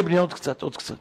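soft, fading reassuring hush; calm the child softly; gentle reassurance. Retold or imitated. Father soothes his son in the dark tunnel, soft reassurance.

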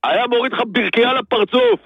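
worked-up, exasperated threats; angry tirade. Real, not acted. Seller threatening customer with absurd punishments, angry tirade. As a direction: rant on, demanding to be heard. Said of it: "כמה הוא כועס".

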